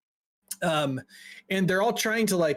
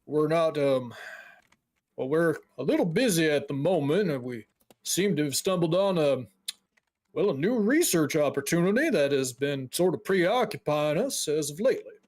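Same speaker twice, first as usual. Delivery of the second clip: a hint of a preoccupied mage; lightly voiced guild dwarf, hedging. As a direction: politely stall visitors in character.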